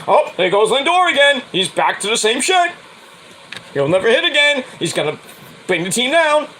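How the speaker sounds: mock whiny fan. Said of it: "everybody's like".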